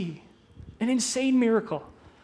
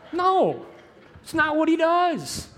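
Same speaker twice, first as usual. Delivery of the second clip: laughing no; 7 semitones higher, slower than usual. Real, not acted. Laughing correction after a joke.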